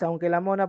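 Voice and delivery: "aunque la mona" held level, then cut; cut-off suspension. Shown as a demonstration. Teacher showing horizontal intonation, "aunque la mona" cut short. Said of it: "ha sido cortada, por eso es horizontal".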